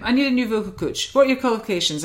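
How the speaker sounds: lightly imitated Louis Walsh accent, sounding Scottish; a loose stab at his accent; attempted Irish-style accent. Guest retells being recruited as vocal coach, attempted accent. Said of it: "I can't do the accent".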